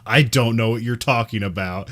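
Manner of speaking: lightly condescending teacher demonstrating a sentence; easy run-together American delivery, mildly superior. Retold or imitated. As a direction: model the sentence fluently, a touch patronizing. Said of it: "like an American who's condescending".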